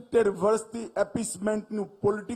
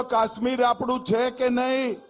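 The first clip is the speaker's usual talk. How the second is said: louder repeat. Shown as a demonstration. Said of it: "બરોબર જોરથી બોલો".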